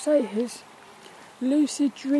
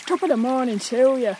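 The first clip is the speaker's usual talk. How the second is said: stagey Irish greeting; hammed-up Irish accent; 3 dB louder than usual. Shown as a demonstration. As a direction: put on a stock Irish brogue. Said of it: "You got the, um, the Irish".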